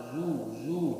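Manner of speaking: "zu" with lips pushed out too soon; wrong rounded zu. Shown as a demonstration. Teacher demonstrating the wrong puckered zu. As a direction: show the mistake of rounding early. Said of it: "Jangan langsung".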